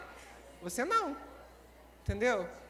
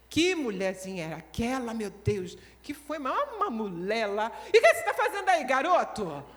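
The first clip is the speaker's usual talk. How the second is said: complaining; 6 dB louder than usual. Acted. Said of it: "Já chega reclamando".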